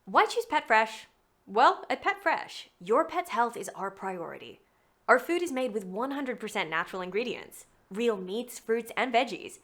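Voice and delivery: natural warm read. Shown as a demonstration. Demoing a pet food ad for her reel, natural warm read. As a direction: smile through it like talking about your dog. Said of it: "warm style read for a pet food company".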